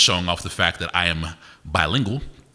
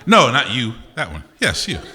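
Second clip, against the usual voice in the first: louder, pointed callout; calling out; 4 semitones higher, 3 dB louder than usual. Real, not acted. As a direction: call across the room to one person. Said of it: "singling out audience member".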